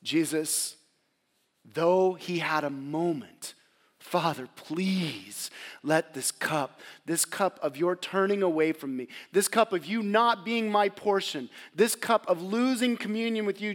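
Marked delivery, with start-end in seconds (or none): 4.0-13.7 pleading cry. Acted. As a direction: beg the Father, voice straining upward. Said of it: "Jesus cried out".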